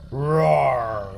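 spoken "roar" drawn out; playful tiger roar. Pretend. Tiger in picture book.

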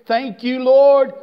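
fervent preacher praise; calling out thanks. Acted. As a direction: Lord shouted loud each time.

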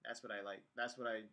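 lips pressed on mouthpiece; slightly obstructed lip movement; talking with hose at lips. Real, not acted. Seen 1: hose mouthpiece rests on lips while he talks throughout.

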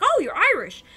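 high, loud imitated surprise; acted-out surprised outburst; mock surprise. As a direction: exclaim it like a surprised paramedic. Acts out paramedics' surprised reply.

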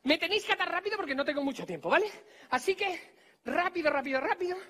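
high, loud, rushed instructions; urgent, pressing delivery; hurried urging. Pretend. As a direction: rush the volunteers along. Hurries volunteers to tie him up.

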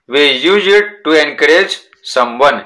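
very slow, careful reading aloud; slow textbook reading. Shown as a demonstration. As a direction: read it out slowly for the class. Reading the textbook English slowly.

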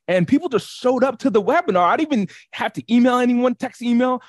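high-pitched, excited retold testimonial; amazed client. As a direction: quote a client who can't believe how easy it was. Quoting an amazed client's response.

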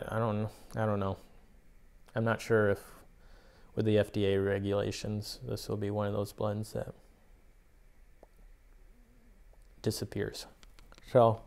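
talking around pipe stem; speaking with clenched pipe; pipe in mouth. Real, not acted. Seen 3: Pipe stem held between lips while he talks throughout.

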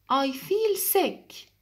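slow, high, mock-sick; sick duck. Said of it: "Said the duck to the chick".

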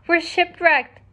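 a storybook elephant's understated moan; mild moan. A narrator's reading. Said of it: "moaned the elephant".

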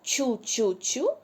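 each syllable spaced out slowly; slow, deliberate syllables; slow syllable drill. Shown as a demonstration. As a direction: spell the rhyme out slowly for children. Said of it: "я читаю рядочок".

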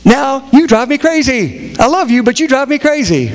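a hint of a fed-up spouse; mock exasperated. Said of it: "It's like".

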